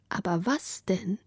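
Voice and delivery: langsam, tonlos geflüstert. A narrator's reading. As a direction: die bange Frage nur hauchen. Grittas banger Gedanke, geflüstert. (leise geflüsterte Sorge)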